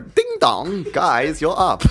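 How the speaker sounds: badly faked Asian accent, sing-out announcement; fake Asian accent. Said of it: "white guy pretending to be Asian".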